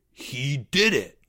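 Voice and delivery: mild, slow mock gasp; a touch of acted shock; gasped accusation. Greg blaming Porge to the boys, mild gasp. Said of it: "gasped Greg".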